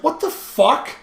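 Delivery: high-pitched retold outrage; incredulous. Student refused by his teacher, retold incredulous. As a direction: squawk it in disbelief, replaying the moment.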